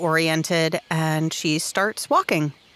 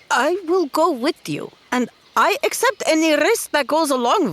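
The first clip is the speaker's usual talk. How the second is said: fierce promise; 4 semitones higher, 3 dB louder than usual. Acted. Talira's fierce loyal promise.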